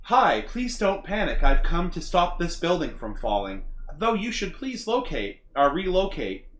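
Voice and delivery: slow robotic voice. Acted. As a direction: speak like a polite robot. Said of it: "I'm just in that robotic voice".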